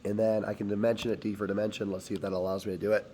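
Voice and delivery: rough, hoarse throat; talking through a sore throat. Real, not acted. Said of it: "Sorry for my hoarse voice right now".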